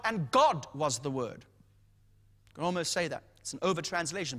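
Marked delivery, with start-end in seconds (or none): 0.0-1.4 "God" punched up front, the rest dropping low; stress on God. Shown as a demonstration. Preacher showing the emphasis in the Greek, stress on God. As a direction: hit "God" hard, then fall away. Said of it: "that's the emphasis that comes out".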